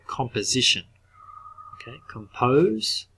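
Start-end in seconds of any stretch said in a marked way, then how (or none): 2.1-3.1 comPOSE with a long, clear O; long O held in compose, said slowly; stressed long O. Shown as a demonstration. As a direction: draw out the O in compose. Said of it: "listen to that".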